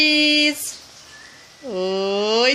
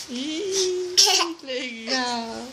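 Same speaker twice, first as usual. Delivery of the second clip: laughing; much slower than usual. Real, not acted. Mother laughing at baby.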